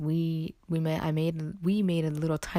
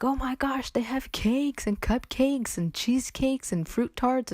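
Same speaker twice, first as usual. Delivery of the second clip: high, slow, delighted gasp over the cakes; excited gushing; 9 semitones higher, slower than usual. Retold or imitated. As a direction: marvel at every dessert you name. Gushing over Whole Foods desserts.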